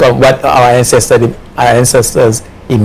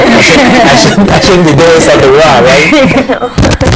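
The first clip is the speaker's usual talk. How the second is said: high, flustered pleading; 6 semitones higher, slower than usual. Real, not acted. Host flustered at dead line.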